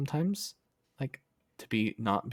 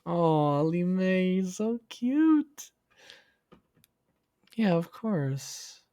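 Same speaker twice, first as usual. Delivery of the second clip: much higher, squealing over something adorable; cute gushing; 7 semitones higher, 4 dB louder, much slower than usual. Real, not acted. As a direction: squeal with delight at the sweetness. Gushing at a sweet chat message.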